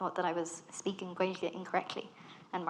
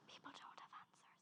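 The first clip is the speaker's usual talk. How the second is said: hushed aside; whispered confidential aside; 27 dB quieter than usual. Real, not acted. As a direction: drop to a whisper for the punchline. Aside after the why questions.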